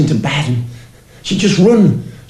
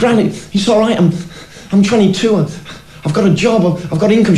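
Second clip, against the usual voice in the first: slightly raised, earnest mock protest; protesting grandson; 3 semitones higher than usual. Grown grandson turning down granny's money, earnest protest. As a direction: reason gently with an insistent granny. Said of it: "and I'd say".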